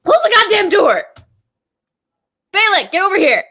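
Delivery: loud, high yell across the house; shouting. Real, not acted. Vlogger shouting across the house at his housemate Balak. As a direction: call out so he hears from the other room.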